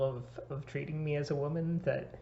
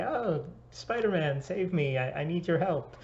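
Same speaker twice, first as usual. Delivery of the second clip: playing along; 4 semitones higher, 4 dB louder than usual. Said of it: "and you play along".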